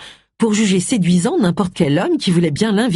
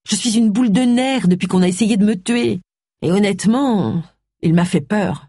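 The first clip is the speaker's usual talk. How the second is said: slightly higher voice, on edge; lightly voiced rattled Agatha; 5 semitones higher than usual. Agatha admitting to Charles she was frightened, lightly rattled. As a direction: confide frayed nerves in a raised pitch.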